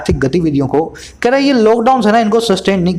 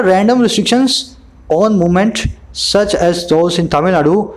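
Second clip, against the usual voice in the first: reads the English line slowly, word by word; slow news reading; much slower than usual. Acted. Teacher reads the news line to his students, slow and measured. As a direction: lay out each phrase slowly for the class.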